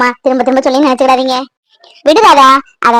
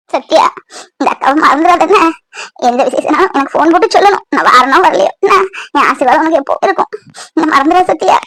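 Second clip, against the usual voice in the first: tearful goodbye; 2 semitones higher than usual. Acted. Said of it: "அழாதீங்கக்கா".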